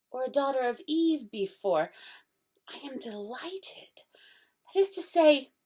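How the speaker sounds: an overjoyed faun tumbling over words; fawn's voice, bursting with delight; excited fawn. Acted. Fawn voice held.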